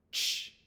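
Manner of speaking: "Ch" as one unvoiced, hissed burst; isolated letter sound. Shown as a demonstration. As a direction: release "Ch" sharply with no vowel after it. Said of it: "we make this sound".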